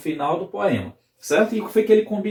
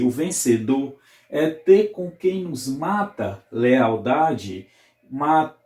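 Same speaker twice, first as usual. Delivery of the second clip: slow, measured reading of a sonnet; poem recitation; slower than usual. Acted. Teacher reads the Camões sonnet to the class, slow poem recitation. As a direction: let each line of verse land slowly.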